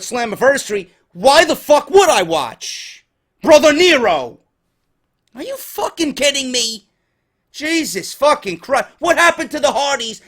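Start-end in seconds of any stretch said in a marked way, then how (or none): 3.4-6.9 loud, higher hammed-up Brother Nero accent; exasperated mock Brother Nero accent. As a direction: blurt the name as a mock impression. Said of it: "I can't do the accent".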